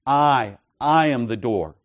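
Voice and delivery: "I" set apart, then stressed anew; emphatic I. Shown as a demonstration. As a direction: press on "I" to show who is meant. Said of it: "in both of these cases is emphatic".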